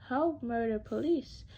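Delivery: frantic scream for help. Acted. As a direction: yell it in panic. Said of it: "screamed Miss Glouter".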